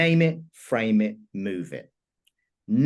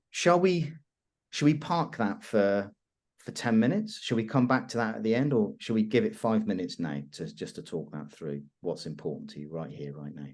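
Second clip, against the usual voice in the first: gentle offer; 2 semitones lower than usual. Shown as a demonstration. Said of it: "I'm giving somebody a choice".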